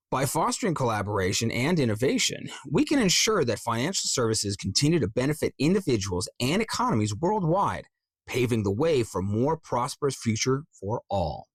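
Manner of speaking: emphatic lift on the key words; corporate script read. Shown as a demonstration. Coach trying the financial script, emphatic announcer read. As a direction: read polished ad copy in one long run. Reads the practice script aloud.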